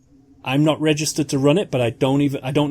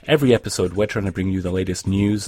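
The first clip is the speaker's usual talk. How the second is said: slightly low, steady announcer read; scripted podcast host voice; podcast outro read; 4 semitones lower than usual. Acted. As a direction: read the show's sign-off to listeners.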